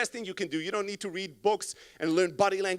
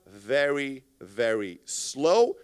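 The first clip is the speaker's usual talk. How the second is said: each word dragged out low; very slow talking; 7 semitones lower, much slower than usual. Shown as a demonstration. Coach showing slow talking tempo, dragged right out. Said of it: "talking tempo matters".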